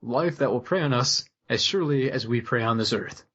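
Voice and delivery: plain Midwestern read, no flourish; flat deadpan Midwestern reading; boring Midwestern. Shown as a demonstration. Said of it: "I'm just gonna read this in boring Midwestern".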